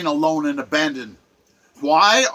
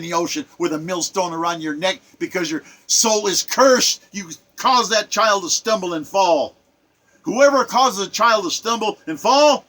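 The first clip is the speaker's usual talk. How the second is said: preaching. Acted. Warning abusers of children in a preacher's voice. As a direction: read it like a preacher pronouncing judgment.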